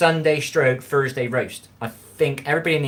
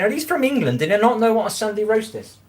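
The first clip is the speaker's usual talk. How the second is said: high, loud quoted thought in disbelief; puzzled disbelief; 10 semitones higher, 5 dB louder than usual. Retold or imitated. Streamer recalls puzzling over viewers' questions, high mock shock. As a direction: wonder aloud in mock shock.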